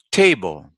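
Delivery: teacher's careful TABLE, stress up front; first-syllable stress. Shown as a demonstration. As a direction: punch the TA of TABLE. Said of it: "we stress the first syllable".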